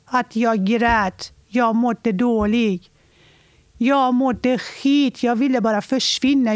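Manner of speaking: anguished, insistent outpouring; real anguish. Real, not acted. Upprörd berättelse om egen förtvivlan. (förtvivlat och eftertryckligt)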